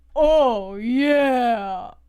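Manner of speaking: deep mascot voice, pitched low. Asked how the Kool-Aid Man sounds, the speaker shows it: Kool-Aid Man voice. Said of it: "how does the Kool-Aid Man sound?".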